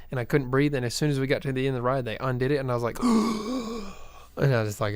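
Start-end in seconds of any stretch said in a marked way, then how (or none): 3.0-4.1 big gulping gasp for air. Retold or imitated. Kid freed from tight coaster restraint, gasping for air. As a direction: imitate gasping after being released. Relieved breath once harness came off.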